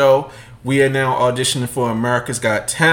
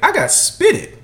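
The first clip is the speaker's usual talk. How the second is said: put-on child's voice; slower than usual. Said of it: "He's like".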